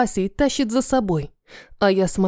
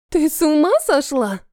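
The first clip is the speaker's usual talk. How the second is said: pitched-up angry snarl; 6 semitones higher than usual. Acted. Chained Mia rounds on the traitor, high angry snarl. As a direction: snap at her in disbelief, voice jumping up. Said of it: "рычит Мия".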